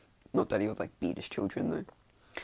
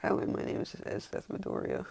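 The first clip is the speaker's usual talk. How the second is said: low-pitched, unruffled introduction; calm; 8 semitones lower, 3 dB quieter than usual. Acted. She greets his family from the bed, calm. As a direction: introduce yourself low and composed. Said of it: "like, just all calm".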